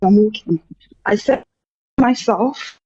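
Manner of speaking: short of breath between words; breathless, talking on the move. Real, not acted. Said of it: "can you catch a breath?".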